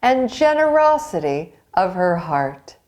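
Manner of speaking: lively storybook read-aloud with character voices; reading to children. A narrator's reading. Teacher reading a folktale to young pupils, lively. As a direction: tell the tale brightly to a class.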